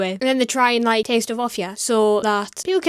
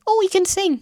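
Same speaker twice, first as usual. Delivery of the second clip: sarcastic mock surprise; 7 semitones higher than usual. Sarcastic dismissal.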